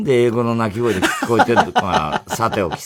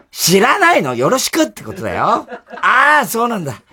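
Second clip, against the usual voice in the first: laughing; 7 semitones higher, 5 dB louder than usual. Acted. Schoolgirl skit, laughing.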